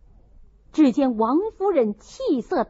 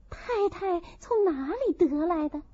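startled; 5 semitones higher, 5 dB quieter than usual. A narrator's reading. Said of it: "也吓了一跳".

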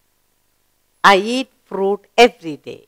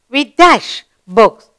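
slow, deliberate reading; slow read-aloud; slower than usual. Shown as a demonstration. Teacher reading the blank sentence to pupils, slowly. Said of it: "What word?".

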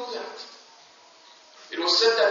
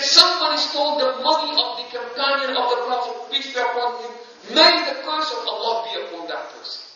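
louder, indignant cursing of the thief; upset businessman; 3 semitones higher, 6 dB louder than usual. Retold or imitated. Merchant in the market, outraged at the theft, loud indignant curse. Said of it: "the businessman ... was so upset".

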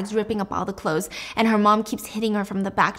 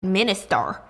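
hissed insult. Retold or imitated. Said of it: "She said".

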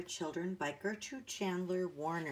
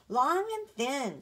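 higher, louder and slow; happy little boy; 8 semitones higher, 6 dB louder, slower than usual. A narrator's reading. Benny happily asking Jessie for a long tail. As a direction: savour it like a delighted child. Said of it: "said Benny happily".

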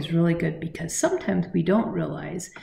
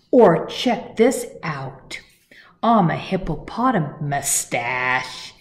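eager bird; 5 dB louder, slower than usual. Acted. Bird shows off to hippo.

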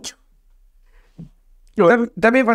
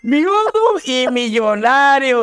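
slow, drawn-out punchline; stretched-out comic declaration; mock-grand proclamation; 2 semitones higher, much slower than usual. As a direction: savour every word of the punchline, slowly.

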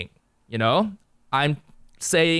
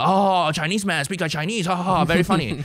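mocking racist; 4 semitones higher than usual. A heckler mocking the Chinese accent, in a put-on voice. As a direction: sneer it like a smug heckler. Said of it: "They'll just go".

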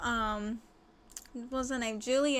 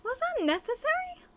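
exasperated; 13 semitones higher than usual. Real, not acted. Sim wanders off oddly.

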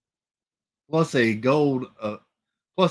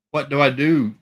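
louder and higher, pleading; 4 semitones higher, 5 dB louder than usual. A narrator's reading. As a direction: raise the plea louder. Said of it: "she asked again, louder".

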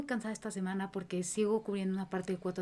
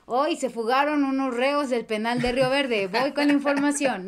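news reporter voice; 4 semitones higher, 5 dB louder than usual. Retold or imitated. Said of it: "estaba dando así como".

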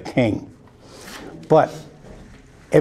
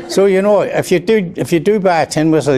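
higher, louder, still laughing; real laughter spilling into the words; 7 semitones higher, 3 dB louder than usual. Real, not acted. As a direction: carry on through the giggles. Still laughing after his joke.

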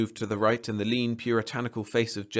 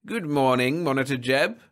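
genial; 4 semitones higher, 5 dB louder than usual. A narrator's reading. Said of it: "the genial face of the man".

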